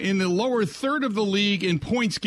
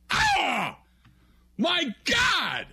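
higher alarmed cry; higher hammed-up shock; mock panic; 8 semitones higher, much slower than usual. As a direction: act out getting robbed. Coach robbed, acted panic.

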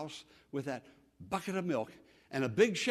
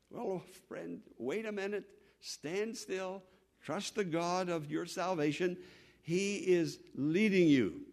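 calm reassurance; slower than usual. Acted. Preacher to a complaining friend, calm reassurance.

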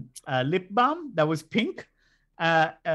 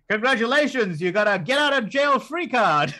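deadpan cop one-liner; 6 semitones higher, 5 dB louder than usual. Retold or imitated. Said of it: "the delivery was so spot on".

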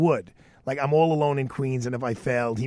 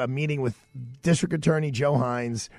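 ordinary talk, nothing marked

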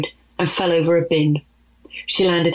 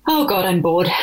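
sighed. Acted. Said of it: "sighed Zoo".

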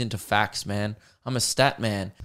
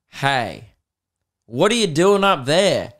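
mock call-out; 3 semitones higher, 4 dB louder, slower than usual. Calling out to Brisbane crowd.

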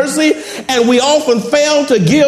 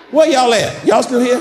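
churchy call-out. Shown as a demonstration. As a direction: call to the congregation like a revival shout. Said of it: "I just gotta say it like that".

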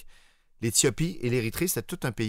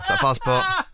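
wheezy; 3 dB louder, slower than usual. Pretend. Faking an asthma attack.

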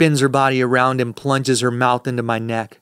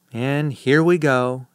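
growl; slower than usual. Acted. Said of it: "she growls".

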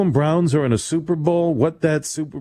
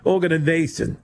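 British accent; 4 semitones higher than usual. Shown as a demonstration. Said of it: "that would be organization".

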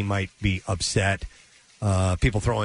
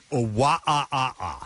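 crazy monkey. Retold or imitated. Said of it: "Like a crazy monkey".

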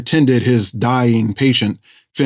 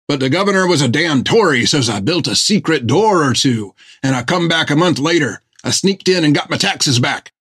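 a boastful sailor, pitched a bit higher; proud rough carpenter; 4 semitones higher than usual. Acted. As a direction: brag about the theft with pride. Tillum tells his crime proudly.

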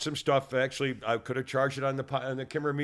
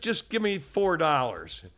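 slow, insistent demand, raised pitch; threatening; slower than usual. Retold or imitated. Customer demanding his change from cashier, mildly threatening. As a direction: spell it out slowly like a mild threat. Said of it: "That sounds like a threat".

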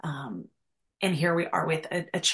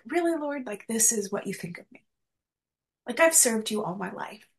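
angry retold prayer; 4 semitones higher than usual. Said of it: "And I was just angry".

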